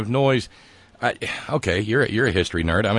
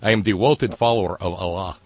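put-on "devoted" said as "dewoted", cheesy Russian accent; 2 semitones lower than usual. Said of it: "You have to say devoted when you're doing your cheesy Russian accent".

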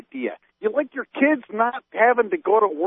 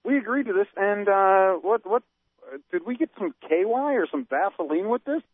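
mock outrage. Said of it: "the real conservatives are saying".

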